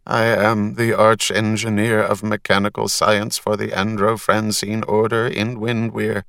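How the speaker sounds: burbling metal man, building urgency; watery voice. Acted. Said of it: "in a watery voice".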